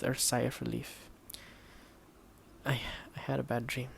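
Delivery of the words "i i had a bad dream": soft, quick, shaken admission; telling his friend of a nightmare, softly. Acted. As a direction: say it quietly, still half in the dream. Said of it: "Shion began softly".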